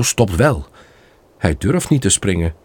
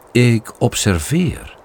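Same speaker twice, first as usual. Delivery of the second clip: calm and grave; 3 dB quieter, slower than usual. Acted.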